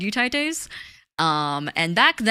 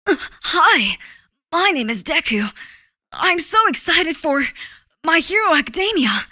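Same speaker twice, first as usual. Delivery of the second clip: high, louder anime boy impression; Deku; 7 semitones higher, 4 dB louder than usual. Streamer mocking cursed Deku clips, eager boy voice. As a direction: play an eager young hero, pitched up. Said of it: "would sound like those cursed Deku Insta".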